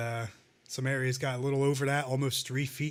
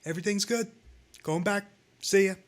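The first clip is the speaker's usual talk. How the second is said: breezy, higher dismissive politician; mock Christie; 6 semitones higher, faster than usual. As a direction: brush it off like a careless governor.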